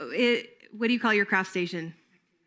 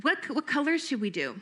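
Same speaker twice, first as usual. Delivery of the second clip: enthusiastic counselor; 4 semitones higher than usual. Shown as a demonstration. Counselor matches camper's pick of rubber bands, enthusiastic. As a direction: cheer on the camper's choice. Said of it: "role-play at the craft station".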